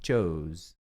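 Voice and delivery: "chose" low, with the English o and z; short o sound. Shown as a demonstration. Teacher contrasting "chose" with "choose". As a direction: say "chose" with the o glide. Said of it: "vai ficar assim".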